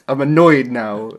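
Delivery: loud, slow, laughing parody; laughing mock grumble. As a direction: lay on a sulky tone while laughing. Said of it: "he gets up and says".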